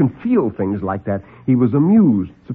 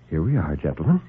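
smiling doctor; 7 semitones lower, 3 dB quieter than usual. Acted. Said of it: "Doctor Grove smiled and said".

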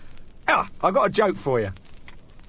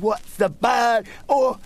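slow, higher dazed patient voice; dopey patient; 8 semitones higher, slower than usual. Acted. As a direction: drag the line out like a man missing his brain. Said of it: "He said".

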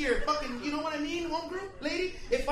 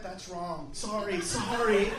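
mock timid white folks backpedaling; hushed mock guilty apology; mock apologetic; 5 semitones lower, slower than usual. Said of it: "all the white people went".

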